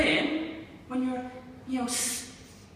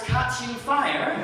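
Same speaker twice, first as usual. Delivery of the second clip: Northern Irish accent; 4 semitones higher, 4 dB louder, slower than usual. Shown as a demonstration. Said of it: "in my accent".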